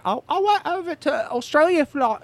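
high mocking prissy voice; imitating the fake-accent teacher. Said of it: "she was like".

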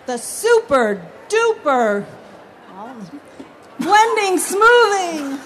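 carnival barker product pitch; chirpy trade show pitch. Acted. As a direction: sell it like a fairground huckster. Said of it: "Cut, cut, cut".

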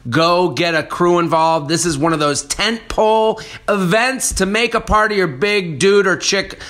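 upbeat promo announcement; ad read. Acted. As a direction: sell it like a radio spot. Reads club ad.

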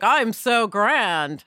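slow, drawn-out mock grandeur; grand Hollywood actress. Mocking a Hollywood actress, slow and lofty. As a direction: stretch it out like a diva. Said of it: "Hollywood actress who's like".

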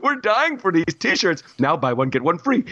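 a hint of the high King Julian voice; lightly voiced cartoon king. Mock mayor hawks T-shirts, lightly high cartoon voice. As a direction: pitch shirts like a giddy cartoon salesman. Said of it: "I don't know why I'm talking like this".

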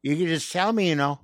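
a hint of a menacing father; drunk dad. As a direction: coax like a half-drunk dad at the banister. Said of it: "he's going".

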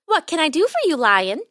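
high little mouse voice, questioning; squeaky mouse. A narrator's reading. Mouse offering help to the lion, squeaky. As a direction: ask it as a tiny, helpful mouse. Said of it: "the mouse asked".

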